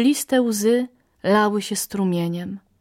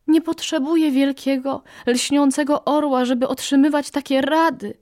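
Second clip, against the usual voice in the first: higher, rasping small bird voice; hoarse little parrot; 5 semitones higher than usual. Acted. Brave parrot rebuffs the eagle's advice, higher and hoarse. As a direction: croak it out like a tired little bird. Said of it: "zachrypiała papuszka".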